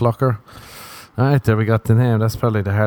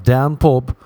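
English pub talk; 3 semitones higher than usual. Retold or imitated. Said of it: "they're like".

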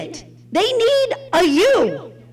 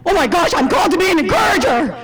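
awestruck; 4 dB louder, faster than usual. Retold or imitated. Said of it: "like, terrified".

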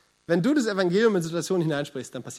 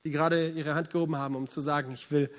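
prayer. Acted. Pastor prays aloud.

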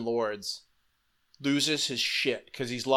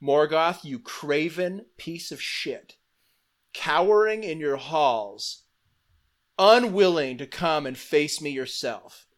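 slow, mock-heroic challenge; challenging call; 2 semitones higher than usual. Elf lord taunting Morgoth at his gates, mild mock challenge. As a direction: call him out at the gates, drawn out. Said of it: "he calls to Morgoth".

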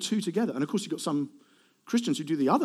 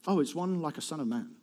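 quieter, acted dawning realization; understated realization; 4 dB quieter than usual. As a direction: let it drop into a modest discovery. Second take, acted surprise at answer.

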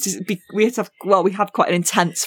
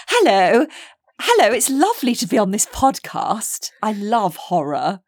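Northern accent; 3 semitones higher than usual. Shown as a demonstration. Podcast guest showing off accents, Northern accent. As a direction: put on a Northern English voice. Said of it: "so that's Northern".

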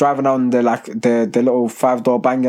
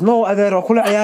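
higher-pitched imitation of a shocked reply; 7 semitones higher than usual. Man at the masjid answering after being told off, shocked. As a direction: imitate someone taken aback, pitch raised. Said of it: "the guy was shocked".

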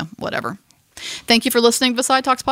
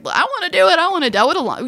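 put-on eager movie teens; 10 semitones higher than usual. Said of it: "they're all like".

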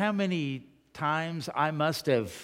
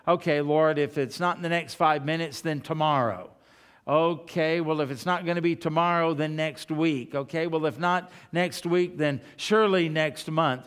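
impatient prayer. Pretend. Mock impatient prayer to God.

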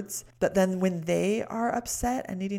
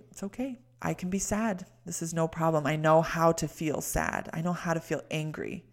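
reassuring. Shown as a demonstration. Reassuring oneself.

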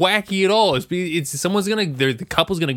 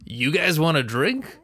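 slow, hammed-up Italian accent; a mock Italian gondolier's accent. Offering tourists a drink in a mock Italian accent. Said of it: "my very convincing Italian accent".

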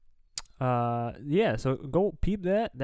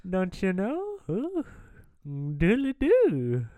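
put-on Irish accent; 3 semitones higher than usual. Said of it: "where we talk in accents".

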